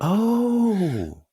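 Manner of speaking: a high, loud gasped oh; sudden high oh of surprise; surprised gasp. Real, not acted. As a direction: caught off guard, real surprise. Learns about free Europe travel.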